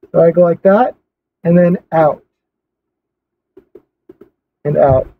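cloth pressed over mouth; muffled behind fabric; through a face mask. Real, not acted. Seen 0: camo cloth mask held over mouth and nose by hands.

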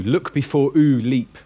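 "ooh" as a bare oo vowel, no y; ooh for you. Shown as a demonstration. Teacher showing the alternative sound, a pure "ooh" without y. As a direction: look before OOH leap, pure oo sound. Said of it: "Then it would have been ooh".

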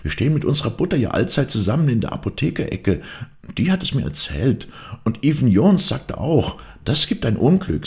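high, excited maid telling news; agitated gossip. A narrator's reading. Maid tells the others of rumours, high agitated voice. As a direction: pour out the rumour, pitched high. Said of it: "rief Angrete".

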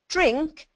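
"Drink," sliding up high at the end as a question; a toddler asking for a drink with a rising "Drink,"; rising question tune. Shown as a demonstration. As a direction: ask "Drink," as a one-word question, the voice climbing. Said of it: "so the way their voice goes up at the end".

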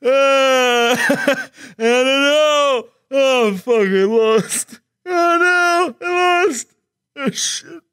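slow, breathless laughing despair; crying with laughter. Real, not acted. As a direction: laugh out the defeat. Lost the challenge, laughing.

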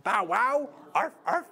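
light playful barking; dog sounds. Pretend. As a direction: yip it for the kids. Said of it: "good dog sounds".

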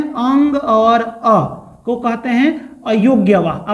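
very slow, every word spaced out; slow drilled emphasis. Shown as a demonstration. Teacher repeats the rule to students, very slowly drilled. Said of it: "अंग और अह को क्या कहते हैं?".

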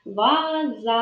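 "Ваза" slowly, final а held long; stretched last sound. Shown as a demonstration. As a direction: linger on the end of "Ваза". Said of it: "визначаємо останній звук у слові".

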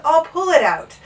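high, loud yell. A narrator's reading. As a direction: yell it out, determined. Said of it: "he yelled".

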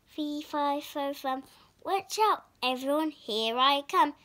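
lightly voiced giant roar; a hint of a booming giant; mild giant roar. Giant roars as he enters, mildly voiced. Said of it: "roared the giant".

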